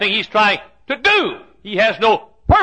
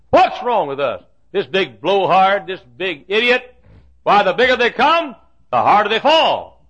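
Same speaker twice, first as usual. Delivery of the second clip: put-on scornful young David; 3 semitones higher, 4 dB louder than usual. David voiced scorning the giant.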